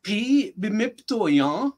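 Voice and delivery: slow, careful model phrase; slow repeat. Shown as a demonstration. Teacher repeating the phrase for a learner, slowly. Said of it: "say the whole thing again slowly".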